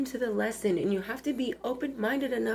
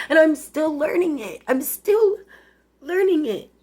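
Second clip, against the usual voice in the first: voice breaking; 4 semitones higher, 4 dB louder than usual. Real, not acted. Tearful realization, voice rising.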